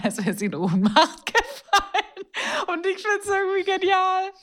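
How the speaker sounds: high, laughing through the words. Real, not acted. Host cracking up over friend's fake faint, high laughter. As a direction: crack up while telling it.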